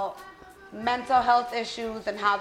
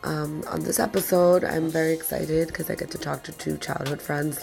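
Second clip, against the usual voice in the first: lower, hoarse voice from a cold; 6 semitones lower than usual. Real, not acted. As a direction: sound like you're sick with a cold. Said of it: "Please excuse my voice, I do have a cold".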